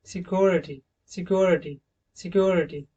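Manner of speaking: सिक्योरिटी said carefully, British style; British model word. Shown as a demonstration. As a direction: repeat सिक्योरिटी with a clear उआ glide. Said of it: "British accent में".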